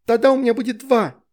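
high, loud gleeful voice; delighted child. A narrator's reading. Veronika happy about two bunnies, high and gleeful. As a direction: exclaim with childish glee. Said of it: "обрадовалась девочка".

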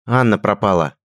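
worried. Acted. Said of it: "взволнованный друг".

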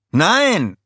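high, loud warning cry; alarmed shout. Acted. Herb cries out to stop the minions, high and loud. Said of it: "rief Herb".

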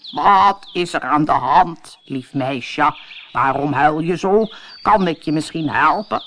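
a frog kindly offering help, gently. Acted. Frog comforts the crying princess, lightly voiced and gentle.

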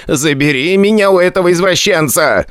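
high, desperate plea for rescue; pleading. A narrator's reading. Tiny Dezik begs Igor to save him, high desperate plea. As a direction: beg to be taken away. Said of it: "взмолился тот".

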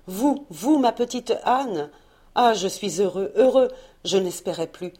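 a lover overwhelmed to see her, half laughing; overjoyed, laughing. Acted. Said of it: "éperdu de joie".

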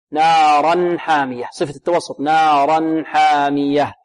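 slow نارا حامية, the n briefly sustained; medium-held noon. Shown as a demonstration. Teacher demonstrates the letter's quality, medium-held noon. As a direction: let the n of نارا flow before حامية. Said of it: "نعطي النون من التوسط".

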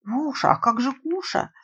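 high alarmed cry; frightened cry. Acted. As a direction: cry out in sudden fear. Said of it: "испуганно закричал".

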